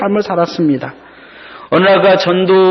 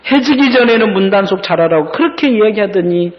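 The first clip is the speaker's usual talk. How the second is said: higher-pitched mock scolding of Mom; acted-out daughter's reproach; exasperated nagging, only mildly raised; 5 semitones higher than usual. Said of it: "큰 소리로 이야기합니다".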